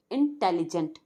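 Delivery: "इंटेलिजेंट" sounded out in parts; measured, syllabled "इंटेलिजेंट"; syllable by syllable. Shown as a demonstration. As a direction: separate the opening "in" of "इंटेलिजेंट". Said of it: "three syllables words".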